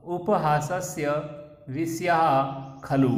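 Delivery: clear, measured recital of a textbook dialogue; Sanskrit recitation. Shown as a demonstration. Teacher reading the Sanskrit passage aloud to students, measured recitation. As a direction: read each Sanskrit phrase out carefully for the class.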